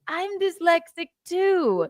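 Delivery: quoted through laughter and crying; laughing quote. Retold or imitated. Daughter quotes Zoe while laughing. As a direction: giggle through the line. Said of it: "And then she said".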